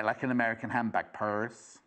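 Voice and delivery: American accent. Shown as a demonstration. Presenter showing off the American word for purse, light American accent. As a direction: say it in a passing mock-American accent. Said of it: "That was my American accent there".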